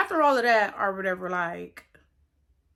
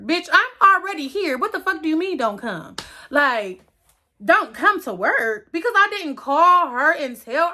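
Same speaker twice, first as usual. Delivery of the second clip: indignant; 4 semitones higher than usual. Real, not acted. Outraged reaction to boss.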